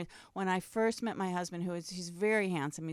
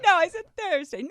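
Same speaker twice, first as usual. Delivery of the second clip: exasperated yell; 10 semitones higher, 10 dB louder than usual. Retold or imitated. Retold quarrel with husband.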